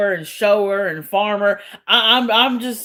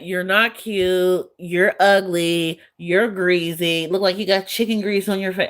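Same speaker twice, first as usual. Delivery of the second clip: mocking troll quote. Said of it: "all that".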